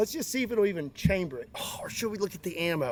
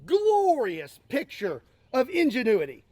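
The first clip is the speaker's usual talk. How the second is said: laughing; 4 semitones higher, 4 dB louder, slower than usual. Real, not acted. Laughing at the rusty gun.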